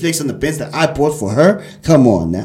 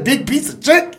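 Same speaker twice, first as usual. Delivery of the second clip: higher, sing-song imitation of the girl; her sketch delivery; 10 semitones higher than usual. Host imitating the sketch girl for listeners, high mimicking lilt. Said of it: "it's the way she said".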